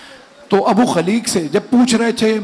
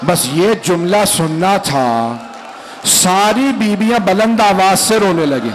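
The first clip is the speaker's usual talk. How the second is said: lamenting recitation building to wail; slower than usual. Acted. Preacher rousing the mourners to weep, rising lament. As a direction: build the lament until it breaks out.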